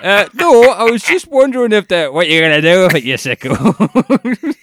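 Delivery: imitating dad. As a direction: play the dad, confused then accusing. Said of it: "He's like going".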